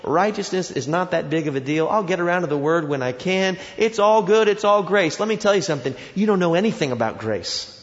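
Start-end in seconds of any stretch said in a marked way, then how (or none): 0.0-5.2 mock complacency. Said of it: "is such that you say".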